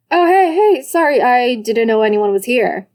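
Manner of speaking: startled. Acted. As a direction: caught off guard, blurting. Caught sneaking, brother startled.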